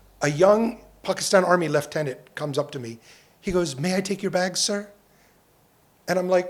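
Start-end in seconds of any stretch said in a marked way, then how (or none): 3.8-4.9 put-on proper British accent, quieter. Retelling a young army lieutenant's offer to take bags: proper british english accent. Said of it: "Such a proper accent".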